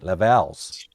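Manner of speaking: mock French Levels. Shown as a demonstration. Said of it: "That's how you say it".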